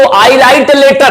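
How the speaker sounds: write spoken slowly, word by word; slow classroom example sentence; slow dictation. Shown as a demonstration. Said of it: "सुने होंगे".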